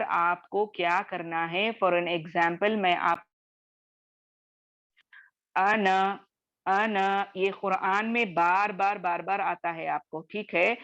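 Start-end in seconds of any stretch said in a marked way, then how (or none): 5.6-7.2 अन said as a clipped an with no long a after the n; short an sound. Shown as a demonstration. Teacher shows students how to read the word without the alif. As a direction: read अन as a short an, not अना. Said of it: "इसको हम अना करके नहीं पढ़ेंगे".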